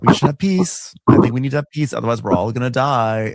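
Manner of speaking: urging everyone, half in jest; mock pleading. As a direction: lightly imitate a man pushing for peace. Corlys is really trying for peace.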